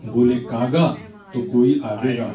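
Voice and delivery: playful measured poetic recital; humorous nazm recitation. Acted. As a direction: recite with a wry smile.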